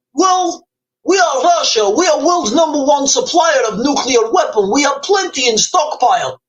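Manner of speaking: put-on boastful arms seller with a thick Russian accent. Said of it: "do you think the Russians might say".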